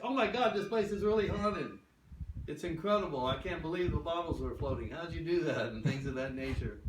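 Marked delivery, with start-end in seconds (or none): 0.0-5.7 high, loud astonished gushing; breathless wonder at the ghostly tricks; amazed visitors. Retold or imitated. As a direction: gush like a stunned tourist who can't believe it. Amazed visitors questioning the guide.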